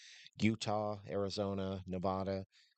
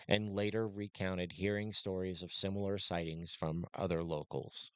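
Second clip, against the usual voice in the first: script read. Acted. Reads a prepared script.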